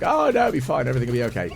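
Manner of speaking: high-pitched parody of breezy confidence; mock blasé. Gamer mocking their own earlier carelessness, mock blasé. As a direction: airily overdo the reassurance, starting high and loud. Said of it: "me being blasé again and going".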